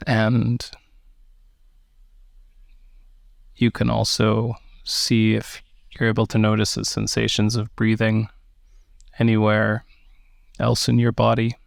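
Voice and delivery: measured meditation guidance with long pauses; unhurried meditation teacher, phrase by phrase; guided meditation. Acted. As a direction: guide listeners gently into the breath, leaving space between phrases.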